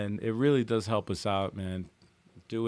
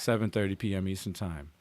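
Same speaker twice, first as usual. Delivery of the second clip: whispering; 6 semitones lower, 8 dB quieter than usual. Real, not acted. Whispered schedule time.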